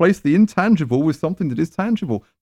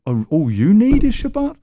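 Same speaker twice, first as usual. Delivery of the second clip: mocking; 7 semitones higher, 3 dB louder than usual. Mocking retort to imagined believer.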